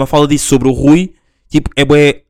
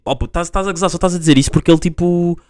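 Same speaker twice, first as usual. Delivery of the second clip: mocking doubter; 4 semitones higher, faster than usual. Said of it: "havia lá um gajo que dizia".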